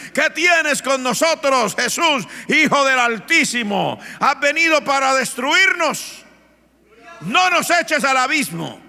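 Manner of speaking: high, loud, slow pleading of a possessed man; demon-possessed man wailing; anguished cry. Retold or imitated. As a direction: cry out in dread before Jesus. Possessed man cries to Jesus.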